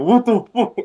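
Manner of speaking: retold scream. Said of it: "I was screaming".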